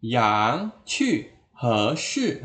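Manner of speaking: YANG rising, QU falling, HE rising, SHI falling; direct tone spelling. Shown as a demonstration. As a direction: copy the tones of YANG QU onto HE SHI. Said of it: "begitu caranya". (HE SHI senada dengan YANG QU)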